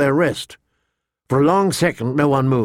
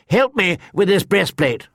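calling out; 6 semitones higher than usual. A narrator's reading. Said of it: "Sir Willis Wode called out".

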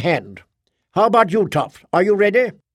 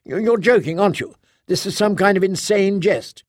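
much higher, incredulous and rising; a Guardian who cannot believe it, pitched up; Kay's voice; 6 semitones higher than usual. A narrator's reading. Kay in disbelief.

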